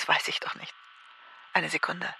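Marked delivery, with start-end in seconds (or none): 0.0-0.7 laughs the words out quickly; a breathless laugh through the line, amused at herself. Acted. Caller laughing at the operator's question. Laughing on the phone to directory enquiries.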